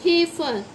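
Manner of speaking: हेफर repeated as HAY-fer; demonstrating pronunciation. Shown as a demonstration. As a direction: model हेफर in two syllables. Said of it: "क्या होगा".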